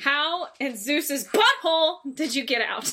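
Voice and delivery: quoting Zeus's butthole with a laugh in it; quoting the actor. Retold or imitated. Friend quotes the Nicolas Cage line, amused. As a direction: read the movie line half-laughing. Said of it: "That's how he says it".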